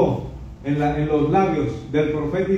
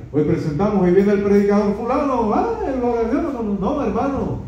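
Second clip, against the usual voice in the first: mock showy announcer; 4 semitones higher than usual. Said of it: "mocking a showy introduction".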